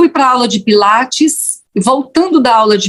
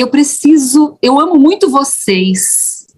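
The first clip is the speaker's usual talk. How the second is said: choked up; 5 semitones higher than usual. Retold or imitated. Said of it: "a voz engasga".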